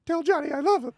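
very high, loud imitation wail; acted desperate cry. Girl calling out love before running off, high loud wail. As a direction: shriek it like a lovesick parting cry.

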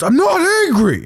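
high-pitched mock fury through the teeth; angry talk. Son imitating dad insisting he isn't angry, furious. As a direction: imitate an angry man straining to deny it. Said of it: "gets mad and talks through his teeth".

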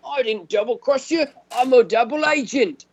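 lightly voiced sneering traitor; sarcastic impression of a movie double agent; mock smug character. Mocking character's line.

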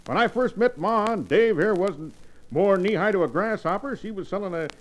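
put-on old prospector. Old-timer reminiscing.

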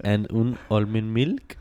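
put-on stammered French-accented question; hesitant mock French order. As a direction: mimic a tourist's French accent. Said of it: "talk in English with a French accent".

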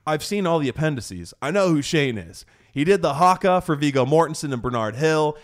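a fan proving he knows everything; fanboy geek out. Retold or imitated. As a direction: geek out over a hero. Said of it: "this little fanboy geek out".

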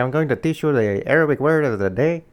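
loud, high mock accent, Arabic slipping into Mexican; imitated Arabic accent. Host mimics Mommy teaching listeners, loud badly faked Arabic accent. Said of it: "no, that's Mexican".

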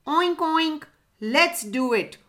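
high-pitched, eager piggy oinks; oinking pig. A narrator's reading. Pig agrees to the birds' plan, eager oinking. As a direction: oink it out, raring to go. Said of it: "oinked the pig".

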